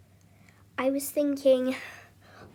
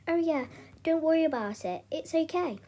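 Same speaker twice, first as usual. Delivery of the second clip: higher-pitched, lightly put-on reassurance; feigned reassurance; 5 semitones higher than usual. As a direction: pretend it is all fine, pitched up. Feigned reassurance to fool the boyfriends.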